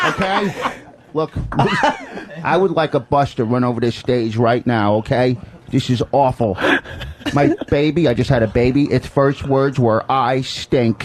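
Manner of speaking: lightly voiced club-comic impression; Rich Voss. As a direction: mimic another comic delivering his joke. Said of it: "All right, we'll do Voss first".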